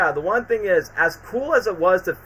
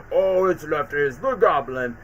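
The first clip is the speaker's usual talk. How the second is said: Goblin voice. Retold or imitated. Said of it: "the voice for Green Goblin".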